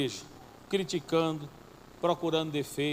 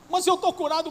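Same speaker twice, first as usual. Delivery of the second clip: much higher, louder cry; excited exclamation; 11 semitones higher, 5 dB louder than usual. Retold or imitated. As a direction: burst out with joy. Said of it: "ele falava pro médico". (exclamação eufórica, bem mais aguda e forte)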